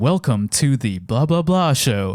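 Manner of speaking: low register voice. Showing close-mic proximity effect on a show intro: pitched-down deep voice. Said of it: "I'm also trying to pitch my voice down".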